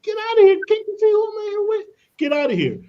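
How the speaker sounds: retold annoyed brush-off at the glass door; mock frantic shoo. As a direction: hiss her out of the room in exaggerated panic. Waving receptionist away mid-meeting.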